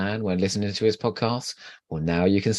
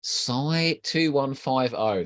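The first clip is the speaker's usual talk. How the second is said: usual speaking voice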